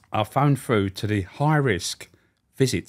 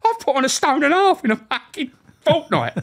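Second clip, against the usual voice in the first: indignant prisoner voice; 7 dB louder than usual. Retold or imitated. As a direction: whine it like a hard done by con. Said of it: "He went".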